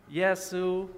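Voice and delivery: Yesu held high and level, first tone; Chinese first tone. Shown as a demonstration. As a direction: sing Yesu on one high flat pitch. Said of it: "Repeat after".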